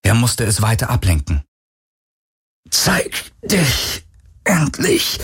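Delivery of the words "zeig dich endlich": high, slow strained call. A narrator's reading. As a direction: challenge the hidden foe. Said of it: "rief er".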